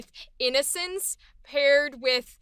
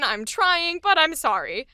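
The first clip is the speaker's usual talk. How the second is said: slightly raised, open apology; cute, open apology; 2 semitones higher than usual. Acted. Clueless new worker owning up to mistakes, cute and open. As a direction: apologize cutely, trying your best. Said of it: "is the cute".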